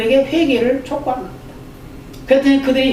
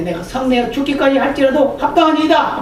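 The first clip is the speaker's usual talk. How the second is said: defiant retort; 3 semitones higher than usual. Retold or imitated. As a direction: answer God back like a defiant child. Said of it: "막 대들죠". (하나님께 대드는 요나, 반항하는 말투)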